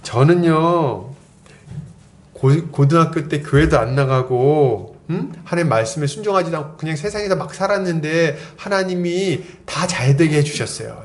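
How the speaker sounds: drawn-out, slow start to a naive testimony; lightly voiced naive young believer. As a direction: lightly mimic an earnest newcomer, stretching the openings. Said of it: "이렇게 얘기하는 거예요". (천진한 새내기를 살짝 흉내 내며 느릿하게)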